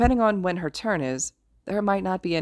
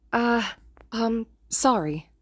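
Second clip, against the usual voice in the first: higher, hesitant, slow sorry; sheepish apology; 5 semitones higher, much slower than usual. A narrator's reading. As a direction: wince through the apology. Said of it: "Izuku winces".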